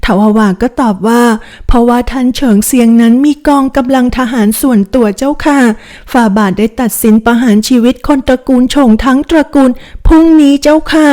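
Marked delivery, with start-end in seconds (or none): 1.4-11.1 a slightly higher, timid servant's voice; a nervous maid breaking bad news, lightly played; lightly voiced young maid. Maid reporting the family's ruin to her young mistress, lightly voiced.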